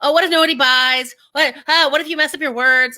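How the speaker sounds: a hint of jittery self-doubt; anxious ego voice. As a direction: voice the worried ego in your head. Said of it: "Our ego jumps in and it's like".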